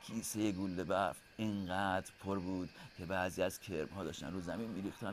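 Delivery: low, soft storytelling; hushed bedtime-story narration. A narrator's reading.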